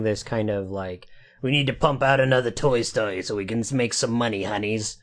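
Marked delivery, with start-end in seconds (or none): 1.4-5.0 lightly put-on money-grubbing studio boss voice; a hint of a cash-hungry executive impression; John Lasseter. Host mocking a film boss pumping out sequels, lightly voiced impression. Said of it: "that's my John Lasseter voice".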